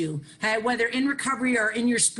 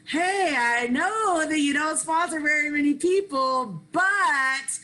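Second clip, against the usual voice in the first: eager high ask; 6 semitones higher, slower than usual. Retold or imitated. Woman approaching a sponsor at a workshop, eager and high. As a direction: rush up and ask hopefully.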